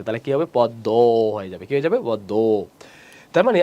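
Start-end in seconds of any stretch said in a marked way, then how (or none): 0.5-0.9 পদ্ম said pod-do, ending on a held o; final o sound. Shown as a demonstration. Teacher showing the final vowel becomes o, পদ্ম as pod-doo. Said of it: "শেষে অ থাকলে ও হয়ে গেছে". 2.0-2.3 পদ্ম as pod-do with a drawn-out o; final o sound. Shown as a demonstration. Teacher answering what it becomes, পদ্ম as pod-doo. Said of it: "শেষে অ থাকলে ও হয়ে গেছে".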